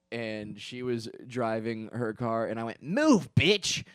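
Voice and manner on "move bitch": high, loud imitation of a traffic yell; acted-out yell at a driver; mock shouted order. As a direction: shout it as a curt command.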